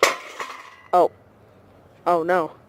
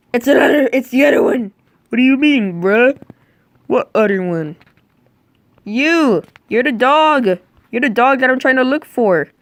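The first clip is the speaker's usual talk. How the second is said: indignant shouting; 5 semitones higher than usual. Acted. Owner accusing the dog of being the lost one, worked up. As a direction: point and yell at the dog.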